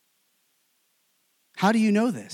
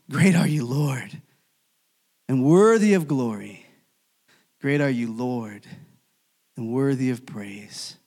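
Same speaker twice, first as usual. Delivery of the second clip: reverent praise; 5 semitones lower than usual. Acted. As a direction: offer it up as solemn worship. Martyrs' praise voiced in sermon.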